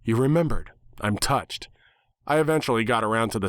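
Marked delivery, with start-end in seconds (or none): 0.0-1.7 enthusiastic exclaim. Acted. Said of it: "exclaim enthusiastically".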